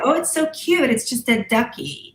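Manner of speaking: high, mock-sweet gushing; sing-song mockery of people calling it cute; mocking cutesy voice. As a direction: imitate a naive fan cooing over a toy. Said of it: "You know".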